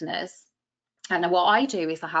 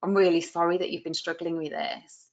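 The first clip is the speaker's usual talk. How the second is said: sincere; 2 semitones lower than usual. Shown as a demonstration. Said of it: "make it sound really sincere".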